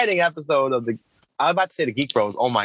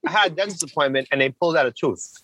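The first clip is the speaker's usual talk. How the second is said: speaking through a full mouth; muffled, words blurred by food. Real, not acted. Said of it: "You sound muffled".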